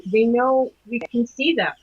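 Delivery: slow, deliberate cryptic remark. Retold or imitated. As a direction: say it slowly, like a cryptic pronouncement. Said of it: "saying to him very cryptically".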